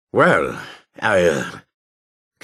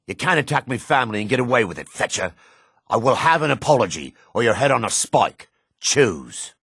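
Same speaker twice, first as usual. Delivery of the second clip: furious demand; 6 semitones higher than usual. Acted. Kin-avenger demands apology or head.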